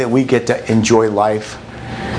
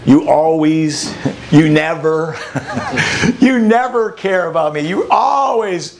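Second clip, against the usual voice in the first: accusing partner; 3 semitones higher, slower than usual. Shown as a demonstration. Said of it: "don't use it as".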